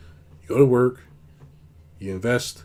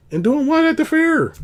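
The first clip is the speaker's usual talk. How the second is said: high, slow, mocking incredulous question; scoffing disbelief; 7 dB louder than usual. Real, not acted. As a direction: scoff at the idea, stretched out.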